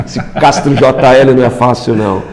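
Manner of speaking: chuckling through the words; laughing. Real, not acted. Laughing at a fan comment.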